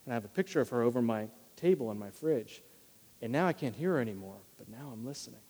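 a soft, hushed retelling of a grieving friend; quiet retelling. Retold or imitated. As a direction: drop the voice, let it go tender and hushed. Retold man remembering his mom.

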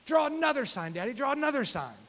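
put-on two-year-old son. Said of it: "And he says".

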